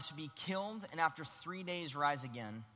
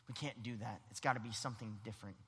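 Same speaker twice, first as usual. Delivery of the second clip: Peter; 6 semitones lower, 7 dB quieter, faster than usual. Acted. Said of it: "Now, that's Peter here".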